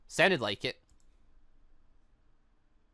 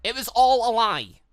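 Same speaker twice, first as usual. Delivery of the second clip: slow, louder, higher accusation; bitter outburst; 6 semitones higher, 7 dB louder, slower than usual. Acted. Yang realizing she was lied to, a loud slow outburst. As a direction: spit out each word slowly.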